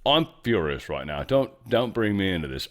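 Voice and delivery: low mock-furious British voice; bad British accent. Host jokingly going British on listeners, bad British accent. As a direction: put on a hammed-up British accent, pretending anger. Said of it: "We might go British on you".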